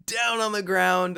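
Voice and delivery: loud, high, drawn-out command; mock drill-instructor yell; barked order. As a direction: shout it like an instructor ordering trainees down.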